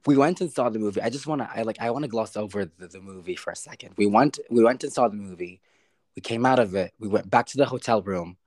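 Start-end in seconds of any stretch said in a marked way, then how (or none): none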